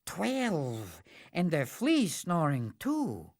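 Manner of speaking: lightly voiced keen-eared hero, reporting; eager listening hero. Hearer reports what he hears.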